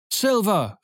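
high-pitched rallying cry; excited pirates' shout; crew calling out. Acted. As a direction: cheer for your leader. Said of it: "riefen sie".

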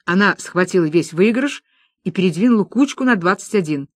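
ordinary delivery, nothing marked

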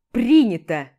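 loud curt bark; barked reply. Acted. Hero barks his acceptance of the apology, loud curt bark. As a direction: snap it out, clearly not meaning it. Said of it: "Рявкаю в ответ так".

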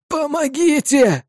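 high, slow rasping plea for help; hoarse cry for help. Acted. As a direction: rasp out a desperate call, sobbing. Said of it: "прохрипел он".

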